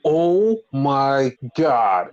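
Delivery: awed. Retold or imitated. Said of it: "made everybody go".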